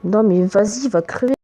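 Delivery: yelling at the game; loud frustrated outburst; raging gamer. Real, not acted. Frustrated at Minecraft mob. (joueur énervé qui crie)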